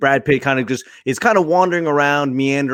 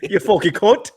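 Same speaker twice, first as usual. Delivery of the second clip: higher mock-Cockney insult; Cockney accent; 6 semitones higher than usual. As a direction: swear like a movie Cockney, half laughing. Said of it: "all y'all accents that y'all just did".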